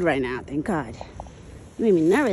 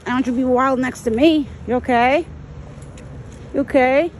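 loud, slightly raised checking-in voice; talking to pet; 3 semitones higher, 6 dB louder than usual. Real, not acted. Woman asks her buck if he's okay, pet talk. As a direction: check on a big animal, voice up.

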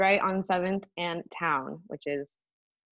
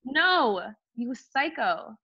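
retold retort, high and drawn out; outraged refusal; 5 semitones higher, 3 dB louder, much slower than usual. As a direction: act out a slow, high, indignant rebuff. Retelling her outraged refusal.

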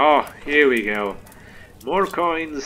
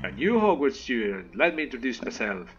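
a light Scottish lilt on a gentle giant; Scottish accent. Acted. Player greeting a new student, in a mild Scottish accent. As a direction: voice the groundskeeper with a hint of Scottish. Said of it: "I don't know why I went Scottish".

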